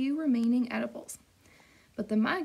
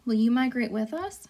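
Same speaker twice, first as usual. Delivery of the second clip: a louder, hopeful little gosling; eager gosling; 5 dB louder than usual. Acted. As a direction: plead to go along with Mama. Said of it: "said Bright Bill".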